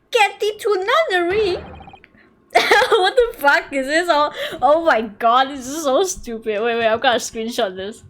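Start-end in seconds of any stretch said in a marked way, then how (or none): 0.1-1.6 higher pitched grand stage proclamation; theatrical Shakespeare quote. Acted. Eccentric lodger dismissing the maiden, hammed-up and grand. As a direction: fling it like an actor on stage.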